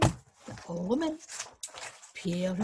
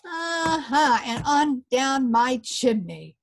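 lightly raised small voice; a hint of a tiny fairy man; little voice; 3 semitones higher, 4 dB louder than usual. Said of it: "said the little fairy".

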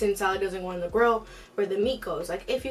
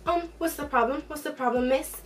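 rude manager voice; 5 semitones higher than usual. Retold or imitated. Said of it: "rude manager is like".

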